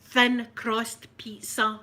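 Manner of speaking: imitated American accent, slow and deliberate. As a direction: spell out the order in mock American. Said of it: "try an American accent".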